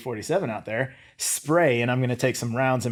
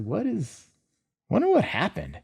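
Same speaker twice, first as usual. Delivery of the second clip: dazed; 7 semitones higher, 5 dB quieter than usual. Retold or imitated. Confused right after the blast.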